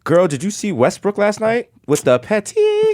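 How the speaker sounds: sassy slow gossip voice; gossip host. Pretend. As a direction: dish the tea, drawn out. Gossipy tea report host.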